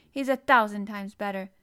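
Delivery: loud, insistent retort; sharp retort. A narrator's reading. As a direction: insist on it, loudly. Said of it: "retorted Mary".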